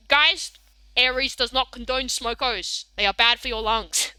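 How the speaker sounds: a hint of broad Australian bogan; lightly put-on Aussie bogan accent. Shown as a demonstration. Streamer warning guys about smokos, mild Bogan voice. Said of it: "I can do a Bogan voice".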